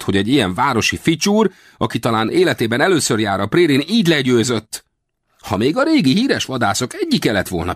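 high, complaining character voice; aggrieved little westerner. Acted. Old hunter ashamed of losing to a city dandy, high and aggrieved. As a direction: lament the defeat in high, wounded indignation.

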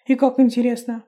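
ordinary delivery, nothing marked

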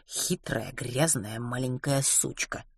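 low, soft, slowing character voice; man's sneering verdict. Acted. Angus Adams passes judgement on Opal, low and slow. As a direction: drop low and savour each insult.

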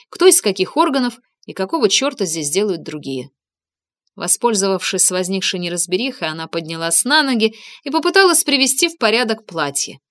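plain reading voice

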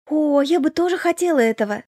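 put-on a young girl suddenly delighted; with enthusiasm. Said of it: "с воодушевлением ответила сестра". (с воодушевлением, выше)

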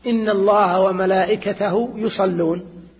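slow, measured reading of إن الله وملائكته يصلون; slow Quran quote. Shown as a demonstration. Teacher quoting a Quran verse to students, slow and measured. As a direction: draw out each word as if reciting. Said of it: "قول الله تعالى".

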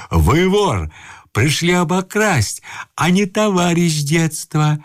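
high, slow accusation; stamping old man's indignant charge; shouting. A narrator's reading. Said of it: "кричал старик, топая ногами".

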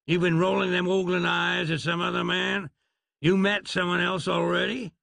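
a hint of an aggrieved cowboy. Doc's Western drawl.

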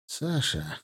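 soft, sighed address; softened, sighing opener. A narrator's reading. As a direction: sigh the name out quietly. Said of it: "вздохнул особист".

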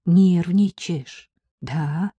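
slow, gentle asking with a catch; sympathetic. Acted. Henrietta to Anya, slow and sympathetic. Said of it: "сочувственно спросила".

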